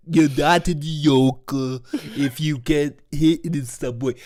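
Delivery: put-on over-the-top New York Jewish accent. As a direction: lean into a bad Larry David voice. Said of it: "New York City Jewish accent".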